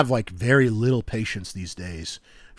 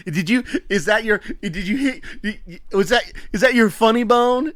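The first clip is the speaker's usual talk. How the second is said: put-on much higher, giggling child's voice; laughing little girl; 11 semitones higher, 6 dB louder than usual. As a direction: squeak it out through giggles like a toddler. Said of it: "she's laughing so hard she can barely get it out".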